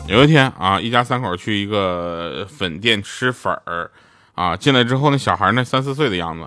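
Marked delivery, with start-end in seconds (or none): none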